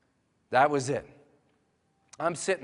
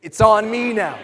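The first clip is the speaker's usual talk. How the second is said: bold, loud, higher cry of resolve; with boldness; 8 semitones higher, 14 dB louder than usual. Shown as a demonstration. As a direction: declare it to the room. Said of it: "say it with boldness".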